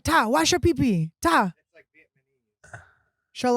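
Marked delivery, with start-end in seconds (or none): 0.0-1.5 mock Asian accent, a bit higher; quick, short imitation of an Asian mother-in-law accent; an impression of a Lao mother-in-law, light Asian accent. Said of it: "Asian accent".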